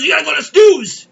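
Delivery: telling the deli story, ranting; exasperated shouting. Retold or imitated. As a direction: vent it loudly. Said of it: "He goes".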